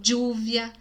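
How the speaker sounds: "lluvia" with a dy-like onset; regional variant. Shown as a demonstration. Teacher contrasting regional accents, demonstrated pronunciation. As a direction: start "lluvia" on a hard dy sound. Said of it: "Tem vários jeitos de falar".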